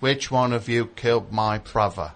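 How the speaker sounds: put-on loose Michael Caine cockney British accent. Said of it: "I'll do my British accent".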